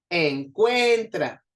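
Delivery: Encuentra slow, middle CUEN loud and long; stress on CUEN. Shown as a demonstration. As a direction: stretch and push CUEN in Encuentra. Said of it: "suena más fuerte la de en medio". (Encuentra despacio, con la CUEN fuerte y alargada)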